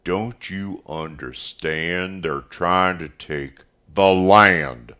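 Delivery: voice rising. A narrator's reading. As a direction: raise your voice to make her understand. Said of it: "his voice rising, too".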